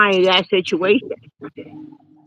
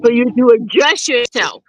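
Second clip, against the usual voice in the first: talking without teeth; gummy, toothless speech. Real, not acted. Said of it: "I had a full mouth of teeth and now I don't".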